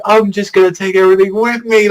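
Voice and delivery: high-pitched, hyped-up villain quote; acted reckless threat. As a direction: declare it as an all-in threat. Acting character's reckless threat.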